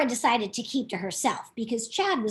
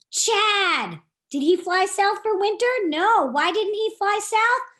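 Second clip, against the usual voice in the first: surprised; 8 semitones higher, 4 dB louder than usual. Acted. Surprise at Chad staying.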